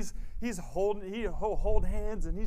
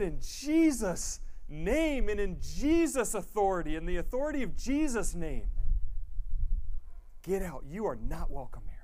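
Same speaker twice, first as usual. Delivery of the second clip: firm command; 3 semitones higher than usual. Shown as a demonstration. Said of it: "No, we said".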